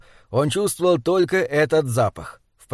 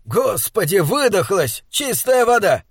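higher-pitched, appalled outburst; dismayed exclamation; 5 semitones higher than usual. Acted. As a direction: exclaim in disappointed disbelief. Disgusted outcry after spitting out beer. (возмущённо-изумлённый возглас)

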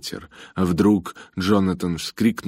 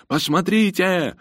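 high, slow excited call; крик; 13 semitones higher, 3 dB louder, slower than usual. A narrator's reading. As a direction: call out urgently, stretching the word. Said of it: "крикнул Джонатан". (высокий протяжный крик)

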